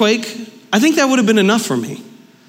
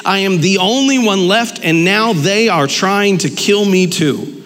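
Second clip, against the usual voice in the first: scripture reading. Acted. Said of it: "It says".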